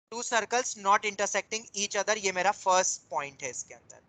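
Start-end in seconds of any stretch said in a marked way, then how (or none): 0.1-2.2 slow, measured dictation; dictating. Real, not acted. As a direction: give the point slowly for writing. Dictating the first point. (धीमी गति से लिखवाते हुए)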